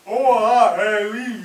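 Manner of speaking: big open vowels from the throat; open Russian vowels. Shown as a demonstration. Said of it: "formed with vowels only".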